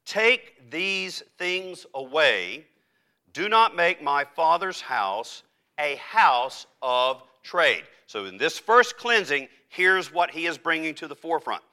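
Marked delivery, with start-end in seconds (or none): 0.0-7.8 very slow, emphatic rebuke in Jesus' words; stern indignation. Acted. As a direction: lay down each word as a firm command. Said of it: "why is Jesus so angry".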